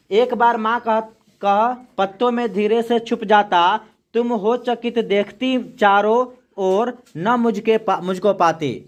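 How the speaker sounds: slow, measured poem reading; poem recitation. Acted. Teacher reading a poem to the class, slow recitation. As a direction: recite the verse slowly for the class.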